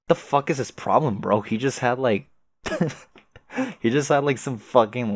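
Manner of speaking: indignant. Real, not acted. Ranting about the insult.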